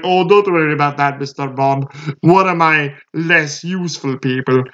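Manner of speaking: lightly put-on British-Russian accent, purring and smug; a hint of a British-Russian villain; mock British-Russian villain. Imitating the villain taunting Bond in a British-Russian accent. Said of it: "like a weird British slash Russian accent".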